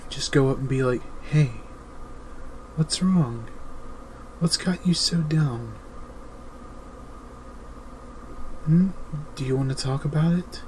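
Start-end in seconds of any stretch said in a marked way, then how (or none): 1.2-10.6 higher, gentle concerned asking; gentle caring ask. Retold or imitated. Partner gently asking her hurting man, tender concern. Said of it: "not with a condescending tone".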